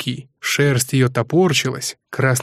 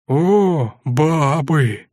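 a lightly voiced soldier drawling with relish; mild leering drawl; drawn out with feeling; 3 semitones higher, much slower than usual. A narrator's reading. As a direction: stretch it out, pleased. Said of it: "с чувством протянул тот".

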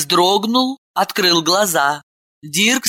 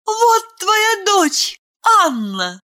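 much higher, slow proud announcement breaking into a sob; proud joy. Acted. Ailen handing Ganin his daughter, high and tearful. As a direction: present the child proudly. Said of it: "Она улыбнулась гордо".

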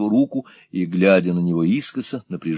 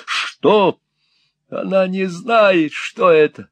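much higher squealing outburst; shrieking; 11 semitones higher, 3 dB louder, slower than usual. A narrator's reading. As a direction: squeal it out, ignoring the question. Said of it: "взвизгнул Грайт".

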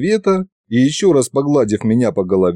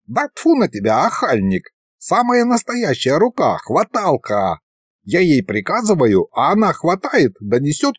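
lightly voiced grumpy old sorcerer; a touch of crotchety old sorcerer; old ghost sorcerer, miffed; 3 semitones higher than usual. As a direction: explain impatiently as a folksy old spook.

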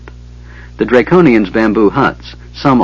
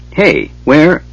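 higher, sharp call after someone; yelled; 6 semitones higher than usual. A narrator's reading. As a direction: yell at the running dwarf. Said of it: "Sturm yelled at the dwarf".

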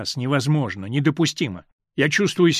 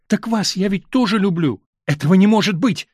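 exclaiming; 5 semitones higher, 6 dB louder than usual. A narrator's reading. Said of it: "воскликнул он".

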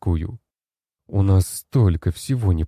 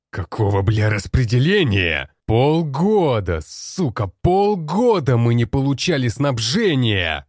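loud, higher, slow outraged yelling; furious shout; 6 semitones higher, 3 dB louder than usual. Acted. Commander yells at the generals about missing supplies, furious. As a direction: hammer each word, half a year without supplies.

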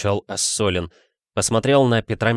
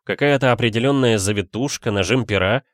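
ordinary delivery

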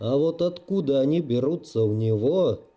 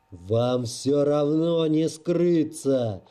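ominous booming voice; slower than usual. Acted. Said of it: "гремел над сводами зала зловещий голос".

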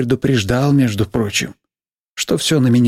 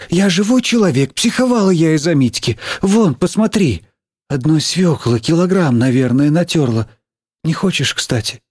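higher-pitched, homely teacher; defensive teacher; 5 semitones higher than usual. Acted. Teacher explaining she fretted over Митька, defensive. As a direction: justify yourself to a pupil.

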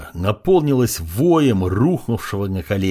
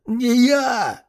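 higher, panicked roar from the beaten prince; roaring denial; 13 semitones higher than usual. A narrator's reading. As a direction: bellow it in terror. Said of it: "взревел он". (испуганный рёв, голос выше)

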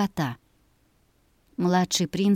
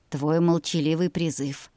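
put-on gentle smiling young man; smiling and soft; 2 semitones lower than usual. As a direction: soften it with a smile. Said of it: "улыбнулся юноша".

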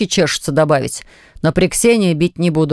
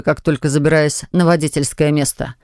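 usual speaking voice

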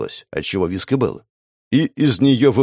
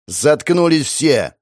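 barked order; 5 semitones higher, much slower than usual. Acted. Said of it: "гаркнул он на банду".

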